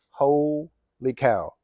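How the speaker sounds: "Holy" stretched, pause, then "cow"; slow, separated amazement; drawn-out exclamation. Real, not acted. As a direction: split it in two with a wide pause. Exclaims it twice, first split apart.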